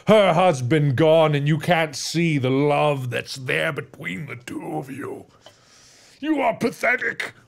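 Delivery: slow, drawn-out pronouncement of doom; gloating villain. Acted. Goose's player cursing the rose owner, menacing. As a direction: taunt the victim, words spaced out. Villain taunts the bereaved man.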